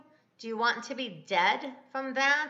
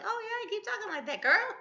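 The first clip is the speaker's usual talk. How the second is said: much higher mock devil voice; taunting devil; 12 semitones higher than usual. Devil answering a woman who talks of dying, mock taunting. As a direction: egg her on in a high put-on voice. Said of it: "the devil was like".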